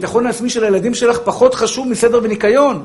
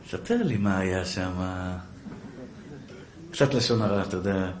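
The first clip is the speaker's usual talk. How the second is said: much lower and softer, coaxing wife; whisper-soft tempting for gossip; sweet wheedling; 15 dB quieter than usual. Retold or imitated. Wife sweetly pressing her husband for gossip.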